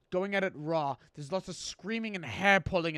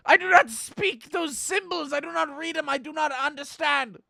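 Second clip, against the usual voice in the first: indignant protest; 8 semitones higher, 6 dB louder than usual. Acted. Baffled chef at symbols.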